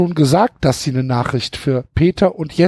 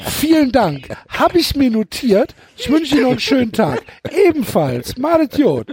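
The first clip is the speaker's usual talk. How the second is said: 1 polite caller; 6 semitones higher than usual. Pretend. Playing polite caller hanging up.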